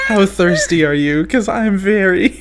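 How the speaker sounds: hammed-up British banter; mock British accent. Host riffing on the water order, mock British accent. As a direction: put on a playful British accent. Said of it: "We're all gonna be British".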